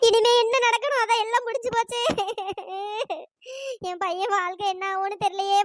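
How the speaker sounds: wailing, sobbing lament; tearful despair. Acted. Groom's mother laments her son's life, sobbing. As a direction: lament tearfully that all is lost.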